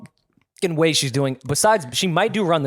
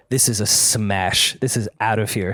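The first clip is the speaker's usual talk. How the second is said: slow, drawn-out hype announcer; radio DJ voice; 4 semitones lower, slower than usual. Retold or imitated. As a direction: sell it like a radio host hyping a hit. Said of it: "I started talking like a radio guy".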